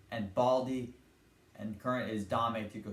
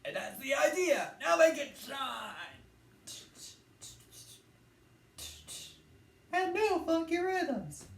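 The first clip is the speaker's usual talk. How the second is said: drill sergeant. Retold or imitated. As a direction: bark commands at the cadets. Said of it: "he says".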